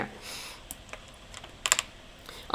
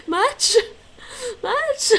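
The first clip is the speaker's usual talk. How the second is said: teasing; 4 dB louder than usual. Pretend. Teasing friend about sugar.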